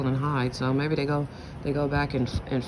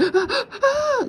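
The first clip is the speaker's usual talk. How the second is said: imitated baby scream; 5 dB louder than usual. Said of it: "it was a horrible scream".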